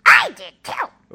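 high, loud, drawn-out cry; explosive mock-violent shout; violent outburst. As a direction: blast it out suddenly. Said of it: "That was violent".

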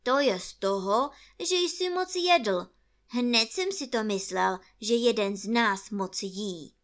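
loud, firm rabbit retort; reproving rabbit. Acted. Rabbit retorts, blaming Pooh's eating.

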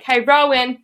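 lightly put-on pestering call; a hint of a needy cat at the door. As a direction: playfully call to be let in. Voices cat-man calling at door.

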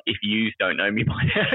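If yous don't know me by now in a lazy broad Aussie accent. Shown as a demonstration. Mocking the Aussie version of the song, broad Aussie accent. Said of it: "the Aussie pronunciation of it is like".

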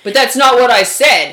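slow, drawn-out mock protest; deliberate, put-on innocence; mock defensive. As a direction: imitate a spouse slowly protesting. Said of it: "In a very matter-of-fact voice".

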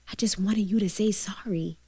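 hushed. Real, not acted. Tearful memory of mother's apology.

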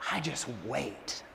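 very low, hushed and slow; imitated scheming child. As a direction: drop to a soft, slow confession of the plot. Voicing daughter revealing her scheme.

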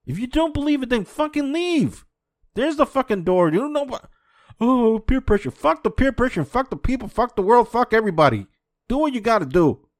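loud, high-pitched angry tirade; furious yelling. Real, not acted. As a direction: rail at them, fed up and loud. Angry rant at listeners.

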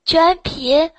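high, fast copy of the host's voice; imitating his voice. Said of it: "就模仿你的声音吗". (模仿主持人的声音，偏高偏快)

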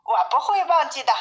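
high-pitched cub promising mother; bear cub. A narrator's reading. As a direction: answer like an obedient little one. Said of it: "三毛说".

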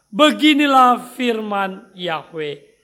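slow, loud solemn reading of scripture. Acted. Pastor leading the congregation in reading the verse, slow solemn reading. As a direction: read the verse slowly, with weight.

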